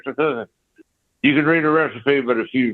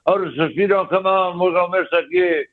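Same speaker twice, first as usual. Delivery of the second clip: retold scream; 6 semitones higher than usual. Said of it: "his musician was screaming for the buck".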